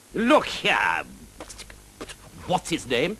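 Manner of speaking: high, huffy knight's demand; in a tizzy. A narrator's reading. Knight stumps up to the dragon, in a tizzy. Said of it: "in a proper tizzy".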